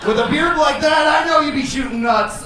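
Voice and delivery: mock shout at a bearded guy. Real, not acted. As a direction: shout it across the room. Heckling a bearded audience member.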